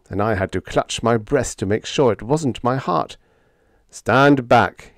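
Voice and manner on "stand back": out of breath from swinging hammer; breathless gasped warning; panting. Acted. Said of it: "he panted".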